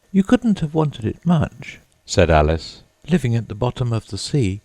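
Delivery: put-on high girlish voice for Alice. A narrator's reading. Alice doubting the Mock Turtle, in a high voice. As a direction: pitch up for the skeptical young girl.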